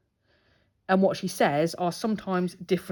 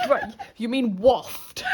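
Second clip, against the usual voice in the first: laughing correction; 4 semitones higher, much slower than usual. Retold or imitated. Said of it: "I'm like".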